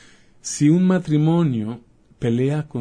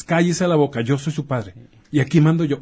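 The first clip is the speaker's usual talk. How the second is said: higher, louder mock scolding; mock angry father; 3 semitones higher, 4 dB louder than usual. Doctor imitating a father shutting up his son, mock angry. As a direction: slam it down like the boss of the house.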